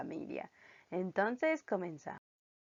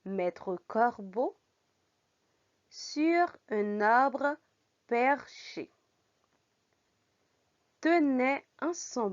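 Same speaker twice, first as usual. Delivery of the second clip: slow French read-aloud in short phrases; measured phrases with lifted pitch and pauses between; careful model reading; 3 semitones higher, slower than usual. Shown as a demonstration. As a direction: read the fable slowly and clearly for beginners. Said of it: "Ahora lo voy a leer bien".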